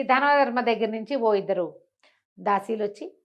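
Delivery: plain reading voice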